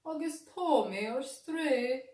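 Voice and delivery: a small dog admitting he's lost; little dog voice. A narrator's reading. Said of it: "ar son madra beag".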